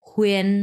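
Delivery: হুয়েন set apart, u gliding into en; model pronunciation. Shown as a demonstration. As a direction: model হুয়েন clearly on its own. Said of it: "এটার উচ্চারণ হবে". (আলাদা করে স্পষ্ট হুয়েন)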